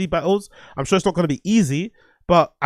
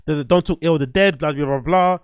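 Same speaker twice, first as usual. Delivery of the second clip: mock preachy lecture. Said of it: "people are going out of their way to say".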